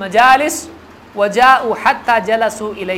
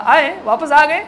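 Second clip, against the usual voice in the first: mock disbelief; 5 semitones higher than usual. Abu Jahl mocks overnight journey.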